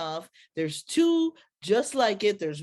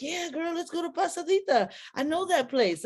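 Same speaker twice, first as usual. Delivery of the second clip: voicing him; 9 semitones higher than usual. Friend voiced in retold scene.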